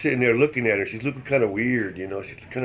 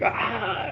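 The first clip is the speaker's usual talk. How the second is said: imitated scream; 11 semitones higher than usual. Girlfriend hit by cold shower water, mock scream. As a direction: give a high-pitched pretend shriek. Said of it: "I screamed".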